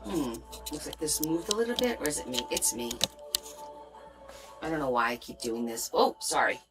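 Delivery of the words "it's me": ordinary talk, nothing marked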